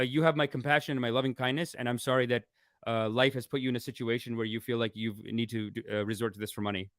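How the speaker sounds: mock compassionate reply. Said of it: "send a thing saying".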